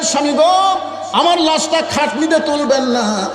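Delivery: high, drawn-out mock wail; tearful plea. Fatema begging her husband about her body, tearful chant. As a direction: chant it as a performed lament. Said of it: "Fatema কান্দের বলে".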